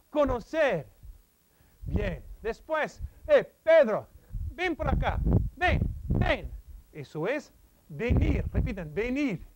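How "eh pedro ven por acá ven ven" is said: calling out. Shown as a demonstration. Calls friend Pedro over.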